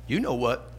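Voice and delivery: low, soft punchline delivery; sly parrot. Acted. Parrot to customer under the manager's eye, slyly understated. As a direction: drop it down quietly as a knowing tease. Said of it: "The parrot looks at the manager".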